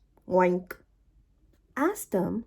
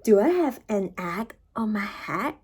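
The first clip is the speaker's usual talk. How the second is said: unvoiced worried whisper; fearful whisper. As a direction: whisper the question in dread. Elephant fearfully asks.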